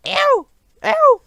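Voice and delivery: shrill high howls of pain; two sharp howls of a dreaming giant. A narrator's reading. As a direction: cry out like a tormented giant. Giant yelling in a nightmare.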